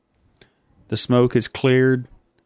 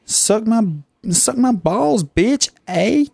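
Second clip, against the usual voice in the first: much higher Canadian tough-guy voice; hammed-up Canadian; 9 semitones higher than usual. Canadian character taunting his interviewer, high and hammy. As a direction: puff up like a cartoon Canadian thug.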